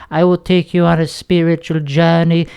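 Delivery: lightly voiced guru, calm and dreamy; spiritual guru voice. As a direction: promise a spiritual journey like a life coach. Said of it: "my guru voice".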